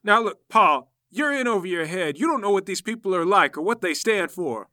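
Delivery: loud, firm scolding; stern warning. Acted. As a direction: lecture him sternly. Father figure scolding Paul.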